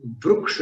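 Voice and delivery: वृक्ष with an 'u' vowel, 'vruksh'; वृक्ष pronounced vruk-sha, u after the r; vriksh said with u. Shown as a demonstration. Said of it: "वृक्ष होना चाहिए".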